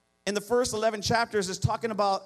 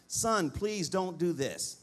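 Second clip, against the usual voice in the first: mother's tearful plea; 5 semitones lower, 5 dB quieter, much slower than usual. Retold or imitated. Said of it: "she would beg me with tears".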